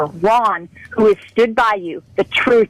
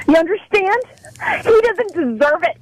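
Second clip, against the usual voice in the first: tearful; 5 semitones higher than usual. Real, not acted. Caller breaking down on air.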